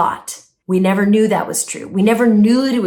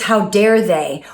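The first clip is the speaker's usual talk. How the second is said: mock indignation; 3 semitones lower, slower than usual. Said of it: "and that voice says".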